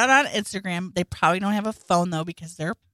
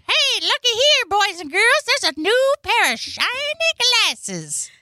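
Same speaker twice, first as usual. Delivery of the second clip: Mister Hanky voice; 5 dB louder than usual. Retold or imitated. Mister Hanky greeting the boys and girls, high cartoon squeak. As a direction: chirp it like a cheerful cartoon poo. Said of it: "Mister Hanky says".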